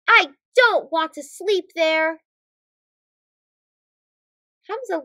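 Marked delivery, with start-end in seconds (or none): 0.1-2.2 put-on child's protest. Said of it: "cries Hamza".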